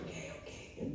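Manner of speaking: breathy whispered okay, okay; half-whispered surrender. Retold or imitated. To God's command, a soft whispered okay.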